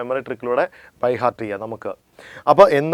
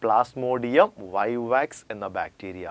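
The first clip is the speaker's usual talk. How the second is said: slow and softer repeat; 3 semitones lower, 6 dB quieter, much slower than usual. Shown as a demonstration. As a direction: quietly repeat it slowly, as a reminder. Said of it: "എന്താണ്?". (പതുക്കെ മൃദുവായി ആവർത്തിക്കുന്നു)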